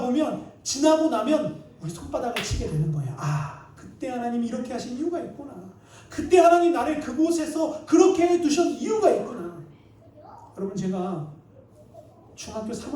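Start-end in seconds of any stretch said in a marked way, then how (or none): 3.2-9.6 dawning realization. Acted. Acted sudden realization of God's reason.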